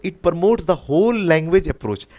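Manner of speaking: very slow, stretched, each word weighed; slow option reading. Shown as a demonstration. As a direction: read the option out at a crawl. Teacher rereads correct option slowly.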